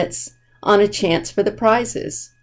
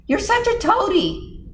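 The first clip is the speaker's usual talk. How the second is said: taunting; 13 semitones higher than usual. Acted. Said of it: "Jenny taunts brother".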